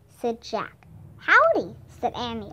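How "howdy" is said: high, louder hello; lifted, punchy hello that falls away; called greeting. A narrator's reading. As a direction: chime in with a raised greeting. Third rider joins the greeting.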